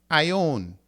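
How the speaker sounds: ion said with one eye vowel, not A I own; right diphthong reading. Shown as a demonstration. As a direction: blend it, eye-on. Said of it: "This is not A I own".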